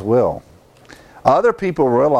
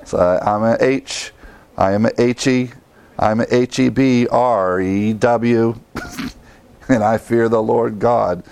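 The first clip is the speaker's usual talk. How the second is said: halting letter-by-letter spelling; spelling it out reluctantly. Retold or imitated. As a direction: spell it out, slowly. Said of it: "like he finally says".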